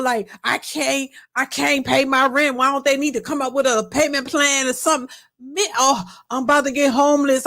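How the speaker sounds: lightly mimicked man in a panic; attempted male voice. Man asking viewers for rent money, lightly put-on male voice. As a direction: play a man begging online, not too convincingly. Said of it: "trying my best to talk like a man".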